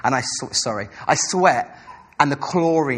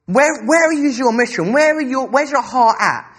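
voice of the Lord; 7 semitones higher, 3 dB louder, slower than usual. Retold or imitated. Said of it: "the Lord said to me".

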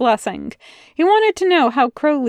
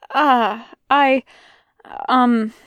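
stuttering; 2 semitones higher, much slower than usual. Acted. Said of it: "he stuttered".

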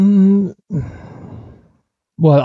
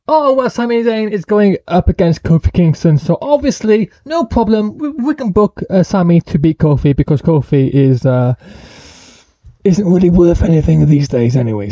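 smug booker voice. Retold or imitated. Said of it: "And then SmackDown".

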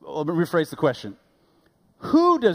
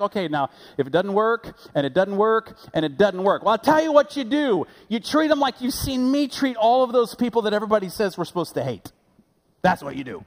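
higher, louder building command; voicing Jesus; 6 semitones higher, 3 dB louder than usual. Preacher voicing Jesus to the church, building emphatic command. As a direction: build like a preacher pressing a point.

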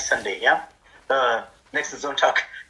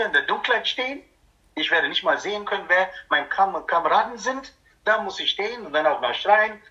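mock whiny refusal; 3 semitones higher than usual. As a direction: whine like someone dragged out of bed. Acts a member refusing night duty. (gespielt quengelige Weigerung, höher)

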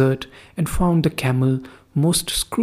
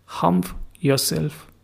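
stern, slow, soft; 3 semitones higher, 4 dB quieter, slower than usual. Acted. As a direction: lean on Humph, drawn out and quiet. Jinn's stern parting order.

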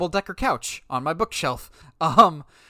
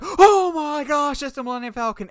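excited cheer; 10 semitones higher, 8 dB louder than usual. Retold or imitated. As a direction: cheer like a thrilled kid in the cinema. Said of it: "I cheered louder than any child in the room".

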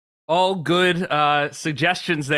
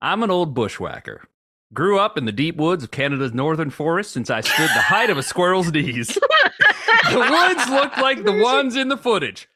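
put-on old bushwhacker voice. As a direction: read it as a grizzled woodsman, baffled. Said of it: "use a different voice for each reviewer".

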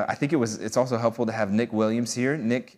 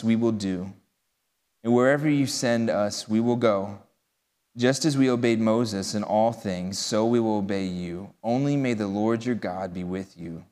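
measured, solemn Bible reading; scripture reading. Acted. Pastor reading Joshua to the congregation, measured and solemn. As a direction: read the passage to the congregation with weight.

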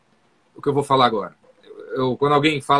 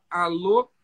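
bored hello. Shown as a demonstration. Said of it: "zero tesão".

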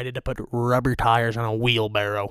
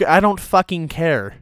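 raised, annoyed brush-off; loud retort; 5 semitones higher, 4 dB louder than usual. Real, not acted. Host answering a complaining viewer, loud annoyed retort. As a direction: snap back loudly at the viewer.

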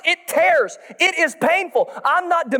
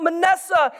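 a mild calling-out of the name; 4 semitones higher than usual. Pretend. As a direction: call the baby's name out. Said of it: "he calls out".

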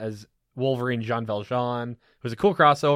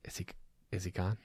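hushed whisper; 7 semitones lower, 13 dB quieter than usual. Pretend. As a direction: whisper so he can't hear. Checking whether the guest left.

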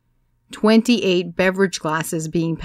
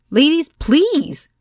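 slow, higher and louder plea stressing "please"; pleading shout; 10 semitones higher, 6 dB louder, much slower than usual. A narrator's reading. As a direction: beg the room to listen. Desperate plea over the noise.

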